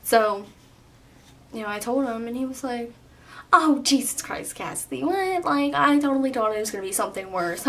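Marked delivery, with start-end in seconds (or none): 3.5-7.6 higher, exasperated dad outburst; goofy dad. Retold or imitated. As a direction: imitate a goofy dad's overblown relief. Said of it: "just being so stupid".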